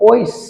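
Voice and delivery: teacher sounding out ঐস as "oish"; ঐস drawn into a clear "oish"; sounded-out pronunciation. Shown as a demonstration. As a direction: say ঐস as "oish", held on the final sh. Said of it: "উচ্চারণ করো".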